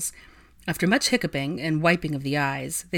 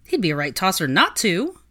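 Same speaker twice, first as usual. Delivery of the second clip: exclaiming; 3 semitones higher, 5 dB louder than usual. Acted. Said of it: "her loyal friend exclaimed".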